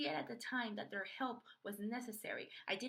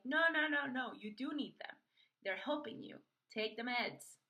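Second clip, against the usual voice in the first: firm self-scolding; 3 semitones higher, 5 dB louder than usual. Retold or imitated. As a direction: scold yourself like a strict friend. Scolding herself about meds.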